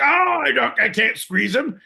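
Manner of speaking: put-on high, whiny kid voice; mocking a whiny kid. Host mocking John as a kid squeezing a rabbit, high and whiny. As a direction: mimic a fretful little kid.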